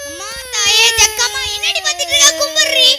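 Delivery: loud, rising ritual cry; commanding invocation. Acted. Fortune-teller orders the mother to worship Jakkamma, loud commanding invocation. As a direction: invoke the goddess, then order worship. Invoking goddess, ordering client to pray.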